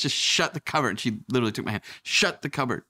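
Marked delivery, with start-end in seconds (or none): 0.0-0.9 "shut" punched higher, as if a curse; imitated wife hitting "shut" hard; almost like swearing. Wife drills husband on the cupboard, almost swearing. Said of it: "almost sounds like she was swearing". 2.0-2.8 "Shut" leaned on, higher, like a swear word; almost like swearing. Retold or imitated. Wife takes husband's hand to practice, almost swearing. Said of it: "almost sounds like she was swearing".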